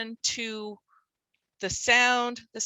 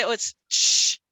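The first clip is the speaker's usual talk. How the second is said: imitating student; 4 dB louder than usual. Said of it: "when kids say".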